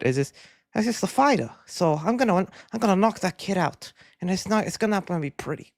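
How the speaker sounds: lightly attempted boxer impression, halting starts; Mike Tyson. Streamer tries a fighter's accent for chat, tentative impression. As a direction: have a shaky go at a famous fighter's voice. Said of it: "do a Mike Tyson accent".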